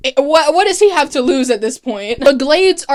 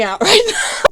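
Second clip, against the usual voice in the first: higher, laughing through the words; 8 semitones higher than usual. Real, not acted. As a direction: break into laughter while recapping. Laughs after her own scream.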